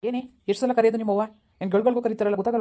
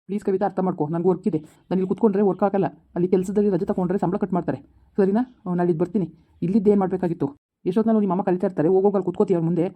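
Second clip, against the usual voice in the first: louder, exasperated ranting; angry husband; 4 dB louder than usual. Acted. Husband yells at his wife that he is leaving, angry. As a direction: lose your temper and insist on going.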